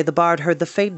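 plain reading voice

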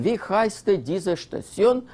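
"wie heißt diese Station" read slowly in German, pitch lifted; German phrase read out. Shown as a demonstration. Guide reading the German line from the soldiers' phrase book, slow and careful. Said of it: "In a German".

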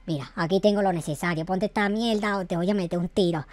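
low voice with a gun in hand; low menacing gunman. Acted. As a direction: talk low while making a threat. Gunman forces the costume.

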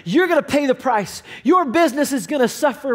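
half-acted vengeful outburst; imitating his own furious yell; retold angry threat. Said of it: "I'm angry".

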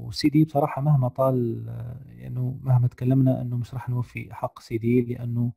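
ordinary talk, nothing marked

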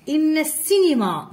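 high إن السينما run together as inna-ssinima; linking hamza. Shown as a demonstration. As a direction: glide from إن into the s of السينما. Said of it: "ما نطقناش كذلك السينما".

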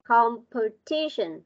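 slow "Competition", stressed on TI; corrected pronunciation. Shown as a demonstration. Teacher correcting a pupil's word, slow "Competition" model. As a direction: spell out "Competition" by ear, slowly, leaning on TI. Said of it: "Not compare".

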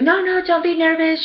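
high-pitched imitated soothing; retold reassurance. Stylist to nervous client, retold high reassurance.

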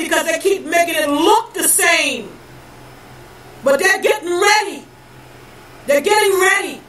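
preaching hard at the lost, rising in force; fiery preaching. Acted. Preacher warning his people of God's wrath, fiery and rising. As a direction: thunder the warning like a street preacher.

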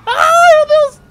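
very high, loud panicked screaming; being chased. Real, not acted. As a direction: shriek while fleeing. Fleeing police in panic. (gritos de pânico na fuga)

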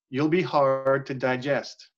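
slow, flat line reading; deadpan the movie line slowly; level, unhurried, uninflected; monotone read, slow. Shown as a demonstration. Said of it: "very monotone".

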